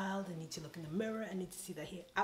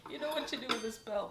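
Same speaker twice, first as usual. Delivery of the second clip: eager pitch; 6 semitones higher, 5 dB louder, faster than usual. Real, not acted.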